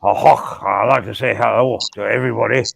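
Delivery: a rough stab at Scottish; lightly put-on Scottish accent; attempted Scottish accent. Host greeting everybody for fun in a mock Scottish accent. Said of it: "I love the Scottish accents".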